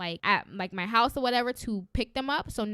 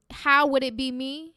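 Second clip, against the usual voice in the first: self-doubting question; 5 dB louder than usual. Shown as a demonstration. Host showing listeners what to stop saying, self-doubting. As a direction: ask it as if counting yourself out. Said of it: "Instead of saying".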